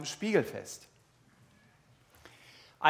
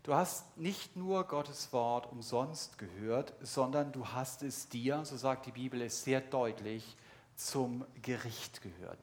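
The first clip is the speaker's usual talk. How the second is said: softer, lower, confiding sermon voice; quiet earnest appeal; 5 semitones lower, 8 dB quieter than usual. Acted. Preacher quietly confronts longtime churchgoers, softer and lower. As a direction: lean in and speak softly to the listener's conscience.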